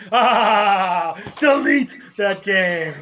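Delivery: lightly voiced, drawn-out mock catchphrase; poor Broken Hardy impression. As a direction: stretch it out as a half-hearted impression. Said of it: "That was a very poor".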